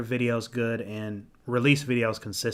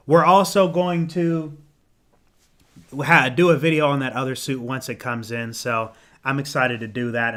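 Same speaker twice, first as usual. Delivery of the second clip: hoarse, tired voice; losing voice. Real, not acted. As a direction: voice starting to give out. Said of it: "I'm starting to lose my voice".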